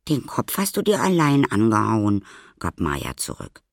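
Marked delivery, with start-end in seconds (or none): 0.1-2.2 high, loud comeback; sharp retort. A narrator's reading. Maya rejecting the boy's blame, sharp retort. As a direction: throw it back at him, pitched up.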